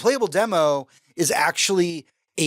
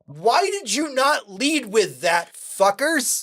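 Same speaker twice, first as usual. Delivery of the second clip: higher, drawn-out mock outrage; exasperated outburst; 7 semitones higher, slower than usual. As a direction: demand an answer, hammed-up exasperation. Acted outrage at the studio.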